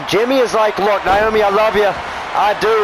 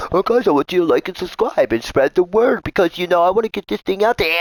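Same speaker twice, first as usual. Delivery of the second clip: mocking imitation of Andy; 7 semitones higher than usual. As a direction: mimic him as a nagging, pleading beggar. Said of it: "do you hear this guy?".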